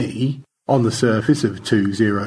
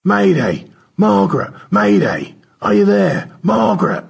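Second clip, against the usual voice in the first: urgent, higher radio distress call; tinny radio voice; 11 semitones higher, 6 dB louder than usual. Acted. Crewmate radioing Margaret for help, urgent tinny distress call. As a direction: call out Mayday as if over a radio. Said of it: "Stanley's tinny radio voice".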